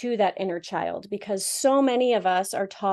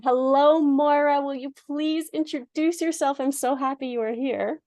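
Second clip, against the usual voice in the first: put-on a playful, slightly higher stab at a Scottish accent; mock Scottish accent; 3 semitones higher than usual. Host greeting guest Moira, in a playful mock Scottish accent. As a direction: greet her in your best worst Scottish accent. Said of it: "my best worst attempt at her beautiful Scottish accent".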